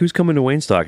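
high, eager announcing; imitating a hype host; announcer voice. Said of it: "They're like".

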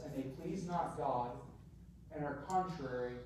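measured, subdued Bible reading with pauses between phrases; restrained pulpit reading; scripture reading. Acted. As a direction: read the verse out soberly, phrase by phrase. Reads the scripture passage aloud.

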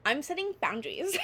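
laughing as she declares it. Real, not acted. Telling the listener about her resolve, laughing. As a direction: giggle through the words, half proud.

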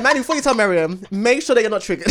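imitating a friend through laughter; half-laughing friendly warning; laughing mock warning. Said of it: "I'm like".

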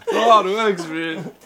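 high laughing no no no; laughing protest. Real, not acted. Protesting the cake split.

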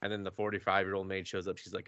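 ordinary talk

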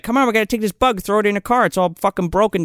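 high-pitched imitation of a pushy woman; mock urging. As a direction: pester someone into a silly plan. Acting out woman urging him along.

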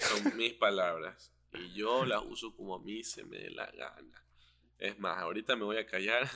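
talking with a blocked nose; congested, nose stuffed up; stuffy nose. Real, not acted. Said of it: "tengo la nariz tapada otra vez".

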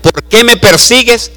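high, loud calling shout; voice from heaven. Acted. God's voice calling Saulo down from heaven, loud. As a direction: call out from the sky, commanding.

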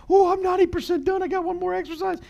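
sudden lift at nearly finished; excited relief. Retold or imitated. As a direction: pitch leaps up, relieved to be almost done. Inner voice during workout.

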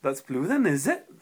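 Welsh attempt with rising question tag; attempted Welsh accent. Shown as a demonstration. Friend repeating the demo on request, Welsh accent attempt. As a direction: lilt up on "is it" in mock Welsh. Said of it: "Do it again".

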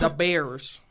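punchy mock Chicago accent. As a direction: say it like a loud Chicago fan. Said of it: "we have a Chicago accent".

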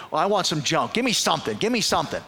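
high-pitched, insistent pleading; playful demand. Retold or imitated. Caller goading a silent receptionist, playfully insistent. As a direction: keep pushing for any response. Pressing silent girl for anything.

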